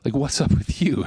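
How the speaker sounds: mildly confrontational questions to oneself; challenging. Acted. Preacher confronting his own soul, challenging. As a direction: call your own soul out a little. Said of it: "It's kind of like a question of challenge".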